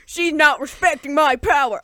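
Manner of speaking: loud mock pouting. Beast sulking over his ignored power, pouting. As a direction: sulk indignantly about being disrespected. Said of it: "this boy is pouting".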